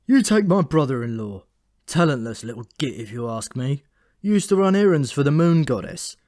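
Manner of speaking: envious rant about the brother-in-law; resentful raven Memory. Acted.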